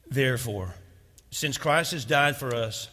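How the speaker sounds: slow, loud, rising scripture reading; preacher reading the verse aloud; scripture read with force. Acted. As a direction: proclaim the verse slowly and powerfully.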